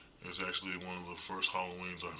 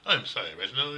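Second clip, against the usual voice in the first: higher-pitched mocking British dude; mock British accent; 5 semitones higher, 6 dB louder than usual. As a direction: put on a prissy British accent, making fun of him. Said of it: "dude with a British accent goes".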